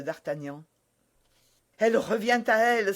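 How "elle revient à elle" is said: relieved cry. Acted. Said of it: "s'écria le jeune homme".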